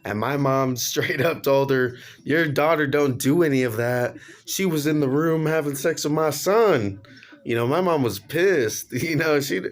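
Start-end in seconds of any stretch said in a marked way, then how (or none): 2.2-7.0 a touch of a mom's higher, louder anger; angry mom retort. Retold or imitated. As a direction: snap back at the other mother, mildly.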